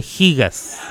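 GIGAS said "higas"; Spanish jota sound opening GIGAS; gigas a la española. Shown as a demonstration. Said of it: "pronunciando en español". (gigas dicho "jigas", con jota)

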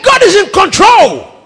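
high, loud faith shout; shouted proclamation. Retold or imitated. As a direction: proclaim it like a battle cry. Preacher counters the man's despair.

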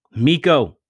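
high, loud desperate shout. A narrator's reading. Vince shouting at his unconscious friend. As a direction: yell his name to wake him. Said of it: "Vince shouted out".

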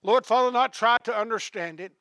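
hushed pastoral prayer; closing prayer. Real, not acted. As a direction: pray humbly over the congregation.

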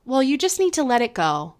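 sweetly patronizing, gently soothing; said nicely. Shown as a demonstration. Speaker demoing a nicely phrased brush-off, sweet and patronizing. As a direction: coat the brush-off in a nice tone. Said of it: "Even if you say it nicely".

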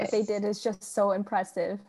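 breathless, winded from talking; out of breath. Real, not acted. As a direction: talk while catching your breath. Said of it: "She's out of breath".

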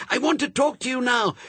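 high, strained demand; hissed shout. A narrator's reading. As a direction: insist in a half-shouted hiss. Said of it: "tried to hiss and shout at the same time".

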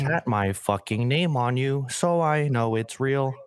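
slow, drawn-out rapper voice; slow lazy rap lines; rapper impression. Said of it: "I was doing a rapper impression".

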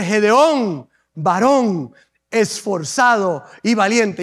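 slow, low proclamation; stretched-out, stately address; solemn angelic greeting. Acted. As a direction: give each title its own weight. Angel addresses Gedeón, declaimed.

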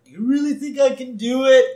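high, loud mock eagerness; hammed-up hopefulness. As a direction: act out a big hopeful question. Abe asks hopefully in retold scene.

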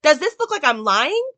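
indignant Karen. Retold or imitated.

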